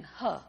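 short, low mock huff; imitated eye-rolling huff. What makes the mother angry, imitated low dismissive huff. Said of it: "rolling her eyes and saying".

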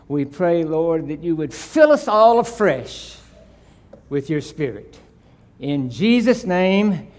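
earnest, measured prayer voice; pulpit prayer. Acted. Pastor praying over the congregation before the sermon, earnest.

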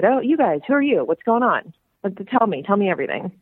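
lively retold nosy hello; eager greeting. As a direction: greet strangers with playful curiosity. Retells her eager greeting to strangers.

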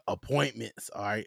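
a touch of parental firmness; lightly acted dad shutting down questions; mildly impatient dad. Dad answering the kids, acted out.

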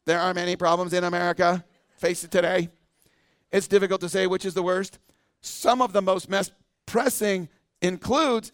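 lightly voiced robot, reading the answer out; a hint of a machine reading aloud; mock computer voice, only lightly put on. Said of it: "I'm gonna read it in the robot voice".

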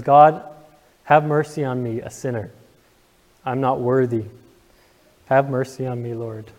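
really moved, pleading for mercy; emotional prayer. Real, not acted. Preacher voicing the sinner's prayer to God, emotional and pleading. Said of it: "I get emotional every time I think about this story".

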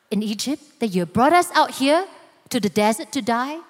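mock-polite, sweetly asking; a hint of polite innocence; overly polite mock inquiry. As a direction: ask nicely, as if nothing were wrong. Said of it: "definitely was not a friendly inquiry".

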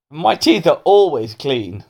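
slow, drawn-out boast; lightly voiced prim pupil. Melanie boasts to her teacher, lightly prim. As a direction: proudly stretch it out, a touch prim.

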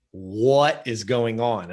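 slow, drawn-out retold demand; lightly acted exasperated mom; demanding mother. Mom to upset son in the car, demanding. Mother confronting her crying child.

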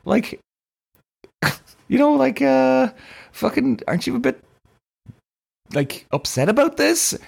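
high, giggly teasing question to mum; half-laughing, can't quite believe she's fine; laughing disbelief. Retold or imitated. Retelling asking his mum if she's upset, laughing.

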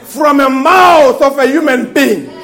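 emphatic sermon with stretched key words; full-force preaching. Acted. Preacher telling the church of squirrels spoken into being, emphatic preaching. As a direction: proclaim it to the congregation.

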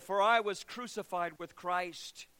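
slow, rising to a loud high proclamation; preacher's climax; fervent scripture. Retold or imitated. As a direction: proclaim it with conviction. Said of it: "To which Billy Stracklin said".

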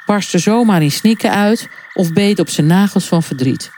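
ordinary delivery, nothing marked

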